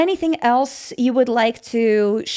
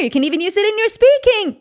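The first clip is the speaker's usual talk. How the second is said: put-on higher, fast Valley Girl speech; 7 semitones higher, 3 dB louder, faster than usual. Shown as a demonstration. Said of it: "That's my Valley Girl voice".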